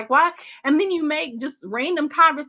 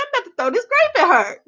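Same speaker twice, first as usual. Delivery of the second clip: retold anger; 11 semitones higher, 3 dB louder than usual. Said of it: "I was so mad when she said that".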